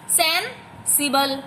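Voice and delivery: "सेंसिबल" slowly, broken after सेन; teacher splitting "सेंसिबल" into सेन and सिबल; syllable split. Shown as a demonstration. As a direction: say "सेंसिबल" in slow, separate chunks. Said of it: "बोल के repeat करके देखना है".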